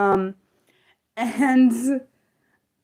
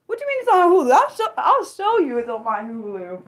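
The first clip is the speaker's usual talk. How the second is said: indignant disbelief; 6 semitones higher than usual. Real, not acted. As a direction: push back, pitched way up at first. Disputes viewer's claim about Hulu.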